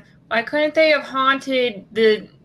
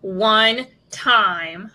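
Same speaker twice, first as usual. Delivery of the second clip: boastful; slower than usual. Acted. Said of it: "I love the way you said that".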